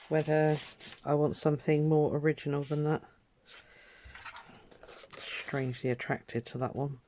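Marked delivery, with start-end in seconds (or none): 5.2-7.0 soft unvoiced aside to herself; whisper to herself. Real, not acted. Crafter picking paper, whispering to herself. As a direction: breathe it privately as you choose.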